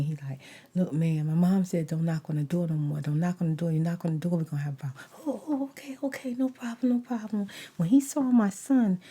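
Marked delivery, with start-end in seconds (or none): 0.7-5.0 lower, puffed-up son voice; tough son. Retold or imitated. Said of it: "my son trying to buff up". 5.3-7.5 scared backing down. Retold or imitated. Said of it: "he turned to a straight chicken".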